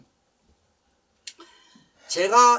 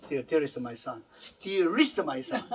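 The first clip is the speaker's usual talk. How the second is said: tender plea; 2 semitones lower, much slower than usual. Retold or imitated. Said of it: "꿇고".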